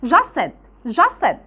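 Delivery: just said as "jus said", no T; linked fast speech; t dropped. Shown as a demonstration. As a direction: link just to said without the T. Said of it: "مش بنطقها".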